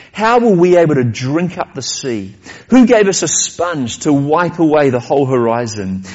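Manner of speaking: emphatic run of rhetorical questions; storyteller voicing an impassioned speech; dramatic reading. A narrator's reading. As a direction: declaim it, building question on question, then falling to a grave close. Reads madman's speech aloud.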